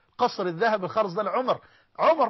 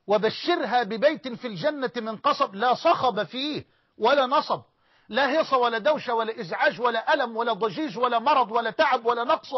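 fervent recitation; 4 semitones higher, 4 dB louder than usual. Acted. Preacher to congregation lists the peace of paradise with rising fervor. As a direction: preach it with mounting joy.

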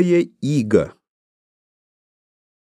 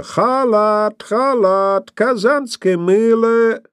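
higher, louder hawker call; louder vendor cry; 12 semitones higher, much slower than usual. A narrator's reading. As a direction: shout it sharper, like a peddler. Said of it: "ещё резче, ещё громче прозвучало". (резкий громкий крик торговца)

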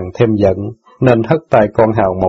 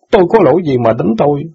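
higher, lightly voiced teen boy, hurt and reproachful; indignant boy; 6 semitones higher, faster than usual. Son reproaches sister for forgetting jailed father, lightly voiced. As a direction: scold her like a wounded son.

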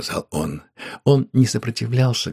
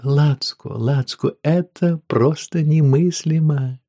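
delighted; 7 semitones higher, 3 dB louder, slower than usual. Acted. Woman still delighted.

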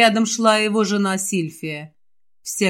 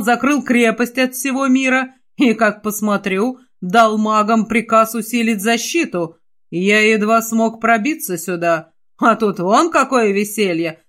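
stern reproach. Acted. Father scolds his son.

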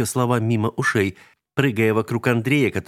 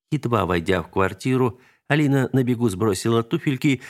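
usual speaking voice

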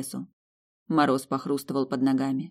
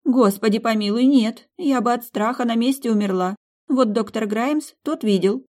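high, loud, scared exclamation; frightened waitress; 8 semitones higher, 5 dB louder than usual. Acted. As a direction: recoil at the thought in fright.

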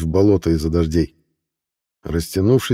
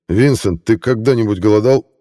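sharp; 4 semitones higher, 4 dB louder than usual. Acted. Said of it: "резко спросил сэр Мальгерб".

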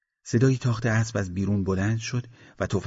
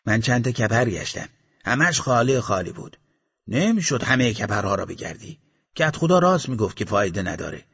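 gunman describing wells; 3 semitones higher, 4 dB louder than usual. Acted.

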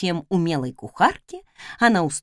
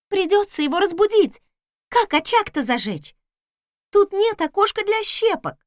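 maid voice; 11 semitones higher than usual. Acted.

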